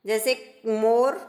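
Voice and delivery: मोर said slowly, vowel held; slow careful मोर. Shown as a demonstration. Teacher modelling the word slowly for children. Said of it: "जैसे बोलते हैं".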